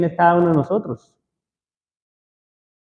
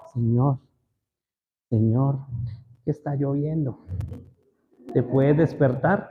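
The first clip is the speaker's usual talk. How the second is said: a far too gentle wake-up call; mock polite request; 2 semitones lower, 7 dB quieter, slower than usual. Preacher mocks disciples waking Jesus, softly polite. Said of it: "No creo que haya sido así".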